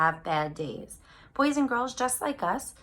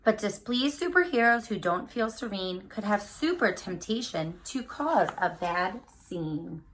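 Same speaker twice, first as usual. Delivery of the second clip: put-on lively picture-book read-aloud for kids; reading to children. Teacher reading a picture book to her class, lively storytime voice.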